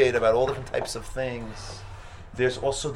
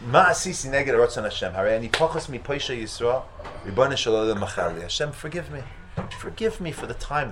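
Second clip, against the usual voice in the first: Hebrew lament; 3 dB louder than usual. Acted. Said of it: "Okay, I'm gonna do it in Hebrew".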